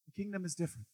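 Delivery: soft emphasis. Acted. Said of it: "this, you live in the kingdom".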